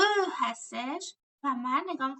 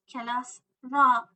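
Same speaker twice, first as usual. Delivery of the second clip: کلاس را said slowly and clearly; teacher models the answer slowly; 2 semitones lower, 6 dB louder, slower than usual. Shown as a demonstration. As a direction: spell it out for the class. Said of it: "slow model answer".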